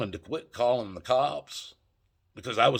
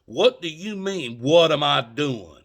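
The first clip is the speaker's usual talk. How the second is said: indignant retort; 5 semitones higher, 6 dB louder than usual. Retold or imitated.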